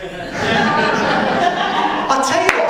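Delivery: slow words through real laughter; laughing. Real, not acted. Preacher laughing while teasing Scotty, laughing. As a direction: laugh as you start the line.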